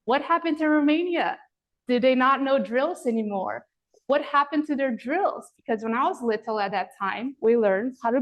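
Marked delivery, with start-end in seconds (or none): 0.1-5.5 raised, exasperated mock shout; mock yell at the screen. Former gymnast yelling at the TV about Romania, exasperated. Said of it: "I'm yelling at the screen like".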